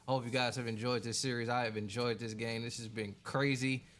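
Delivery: upbeat YouTuber outro-style pitch; channel intro read. Shown as a demonstration. Streamer reads his intro to the viewers, upbeat host style. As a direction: sell the series to the viewers. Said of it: "Let me get my intro in".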